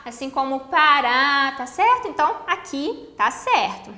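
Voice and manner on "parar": "parar" drawn out on its last syllable; stress on final syllable. Shown as a demonstration. Teacher giving another example word, final-syllable stress on "parar". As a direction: lean long on the second syllable of "parar". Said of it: "terminadas em A".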